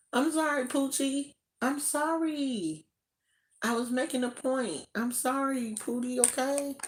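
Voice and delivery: high, sing-song apology to a pet. Real, not acted. To her startled sleeping dog, high cooing apology.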